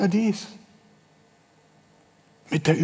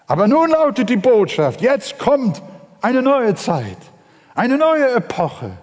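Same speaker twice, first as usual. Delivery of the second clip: rousing announcement; 6 semitones higher than usual. Acted. Preacher announces the new era.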